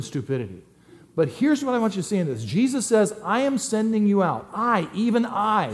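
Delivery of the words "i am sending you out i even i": "I, even I" lifted high and slowed; stress on I. Shown as a demonstration. Pastor showing the congregation where Jesus puts the stress, emphatic. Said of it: "that's the emphasis".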